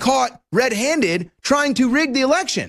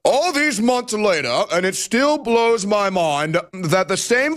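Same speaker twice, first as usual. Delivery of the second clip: slow, far-off mocking professor read; hammed-up haughty academic quoting the tweet; mock Harvard professor voice. Host mocking a Harvard professor's tweet, slow mock voice. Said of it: "let me go into my Harvard professor voice".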